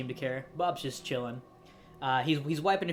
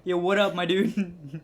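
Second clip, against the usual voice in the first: casual phone greeting; 3 semitones higher, 5 dB louder, slower than usual. Acted.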